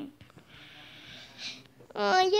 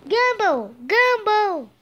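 calling out; 3 dB louder, much slower than usual. Acted. Calling out to Gumball.

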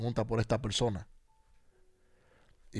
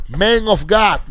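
Man of God called loud, high and very slow; drawn-out call; 9 semitones higher, 14 dB louder, much slower than usual. Retold or imitated. Housekeeper calls the preacher, loud, high and drawn out. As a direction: stretch every word of the call out. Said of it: "Una afroamericana, una houseco-, housekeeping".

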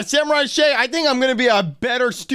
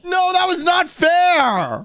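protesting shout; 5 semitones higher, slower than usual. Acted. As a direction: cry foul at the teacher. Johnny loses duel, protests.

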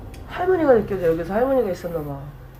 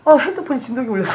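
fast, laughing explanation; 4 semitones higher, faster than usual. Real, not acted. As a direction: laugh it off quickly. Laughing off being startled.

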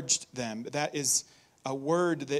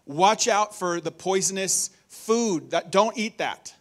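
urgent warning; 2 semitones higher, 4 dB louder than usual. Retold or imitated. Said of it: "somebody saying".

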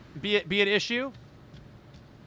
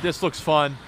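usual speaking voice

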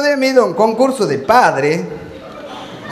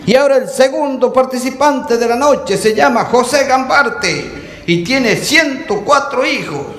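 announcer; 2 semitones higher, slower than usual. Acted. Announcer introduces contestant.

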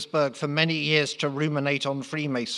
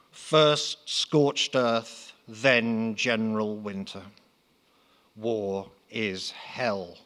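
ominous Mother Russia; 2 semitones lower, much slower than usual. Acted. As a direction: draw each phrase out like doom.

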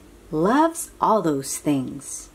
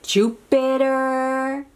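slow model word; 4 semitones higher, slower than usual. Shown as a demonstration. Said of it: "Can you say that?".

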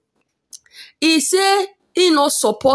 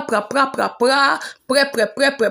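mock chatter noise. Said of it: "the man mouth too dey make pra".

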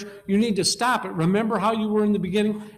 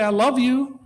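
suggested I love you; 5 semitones higher, 5 dB louder than usual. Shown as a demonstration. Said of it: "look at each other and say".

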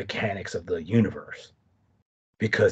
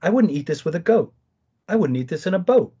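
higher, sing-song nursery rhyme recital; bouncy storybook rhyme voice, pitched up; reciting Doctor Seuss; 6 semitones higher, 4 dB louder than usual. Retold or imitated. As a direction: recite it like a silly children's rhyme. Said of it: "I start quoting Doctor Seuss".

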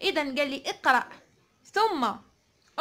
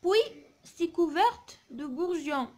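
slow, measured model reading; poem read aloud; 2 semitones higher, much slower than usual. Shown as a demonstration. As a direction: read it out slowly for pupils to follow. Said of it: "نقراو الشعر هذا مع بعضنا".

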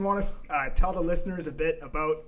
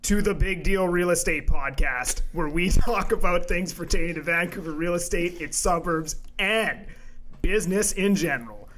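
measured podcast host intro delivery. Pretend. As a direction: announce it with deliberate, punched key words. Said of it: "Why are you talking like that".

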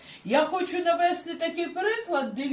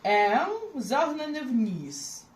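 slow explanation; slower than usual. Shown as a demonstration. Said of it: "бачите?".

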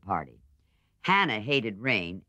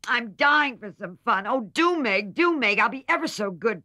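much higher, louder whining plea; pleading; 11 semitones higher, 6 dB louder than usual. A narrator's reading. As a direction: beg pathetically like a sick child. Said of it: "pleaded Amy".

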